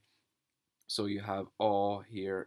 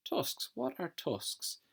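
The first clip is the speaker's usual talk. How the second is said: curious question; 11 semitones higher, slower than usual. Shown as a demonstration. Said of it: "teacher asking class a question".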